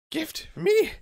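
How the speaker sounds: high, loud goblin squeal; loud, squeaky creature cry. Acted. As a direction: squeal it out like an eager little goblin. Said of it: "squeaky voice".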